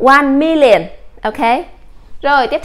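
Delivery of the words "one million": one million read slowly and clearly with MIL stressed; English model reading. Shown as a demonstration. Teacher reading one million aloud for her class. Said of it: "các em đọc là".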